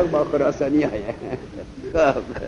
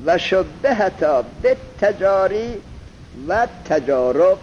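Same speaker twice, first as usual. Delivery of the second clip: reading the text aloud. Shown as a demonstration. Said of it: "حالا عبارت گوش بده".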